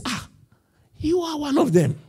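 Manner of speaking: high-pitched, drawn-in accusation; mock accuser. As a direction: point him out in a high voice. Acted accuser spotting Peter.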